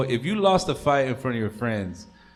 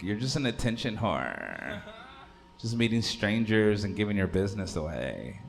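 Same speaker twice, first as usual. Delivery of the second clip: lazy Kardashian voice; 4 dB quieter than usual. Retold or imitated. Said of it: "the lazy Kardashian voice".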